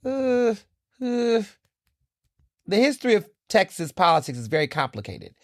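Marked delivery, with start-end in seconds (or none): 0.0-1.4 high, stunned stammering uh; speechless uh. Retold or imitated. Reacting to stereotypes she reads online, speechless uh. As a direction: sound lost for words. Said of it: "I'm just like".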